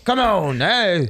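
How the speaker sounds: hammed-up posh British accent, slow in places; mock British accent. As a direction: play a sinking Titanic Brit in a bad British accent. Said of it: "Your British accent sucks, bro".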